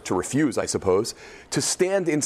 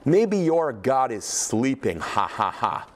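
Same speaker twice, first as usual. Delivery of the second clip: mocking taunt; 2 semitones lower, slower than usual. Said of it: "What does Elijah say".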